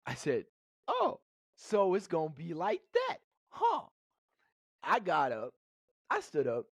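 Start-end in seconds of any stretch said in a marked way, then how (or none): 0.9-3.9 challenging shout. Retold or imitated. Retold standoff with dad.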